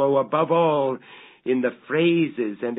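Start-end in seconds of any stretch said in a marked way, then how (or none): 0.0-1.0 "oh, above all" swelling louder and higher, with "all" falling heavily; impassioned outcry. A narrator's reading. Narrator overwhelmed by his daughter's likeness, crying out louder. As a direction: cry it out as if the thought overwhelms you. Building to the dread climax.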